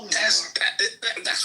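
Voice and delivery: stuttering. Real, not acted. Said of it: "Why he stuttering?".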